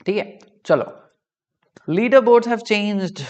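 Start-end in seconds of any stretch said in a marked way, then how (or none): 1.9-3.2 dramatic announcement. Real, not acted.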